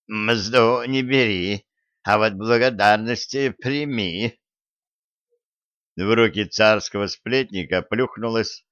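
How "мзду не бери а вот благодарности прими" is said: lightly voiced old granny; a hint of a frail old woman. Old woman character speaks.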